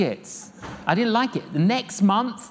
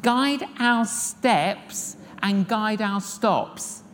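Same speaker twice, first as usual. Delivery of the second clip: prayer; much slower than usual. Shown as a demonstration. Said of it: "we gotta pray".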